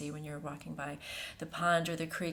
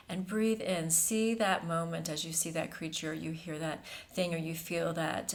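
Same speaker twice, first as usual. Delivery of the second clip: guided meditation. Acted. Host channels a feminine energy for listeners, meditative and hushed. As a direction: lead them gently into the breath, unhurried.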